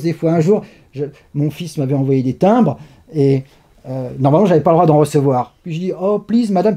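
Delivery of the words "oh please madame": put-on English plea in a French accent; thick French accent. Prisoner coaxing a guard over forbidden stamps, thick French accent. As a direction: plead politely, French accent laid on. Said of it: "j'ai pris un bon accent bien français".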